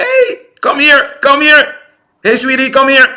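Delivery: high cooing come-here call to a dog; coaxing a dog. Retold or imitated. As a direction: sweet-talk a big dog so it calms. Coaxing a big German Shepherd.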